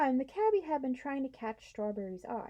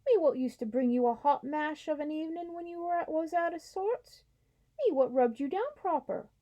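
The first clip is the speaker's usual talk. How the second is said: hurt cockney cabby; 4 semitones higher, 5 dB louder than usual. Acted. Cabby hurt, horse forgets him.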